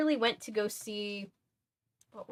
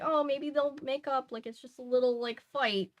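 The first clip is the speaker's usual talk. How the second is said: higher, breezy mock mom; airy hopeful mom, pitched up; naive mom; 6 semitones higher than usual. Streamer imitating the unaware mother, breezy and higher. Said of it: "the mom's just thinking".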